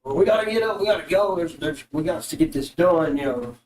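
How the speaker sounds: urgent elf rallying his men, pitch lifted at first; adamant elf. Acted. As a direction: press the point firmly as the elf. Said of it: "I guess I'll do the elf guy".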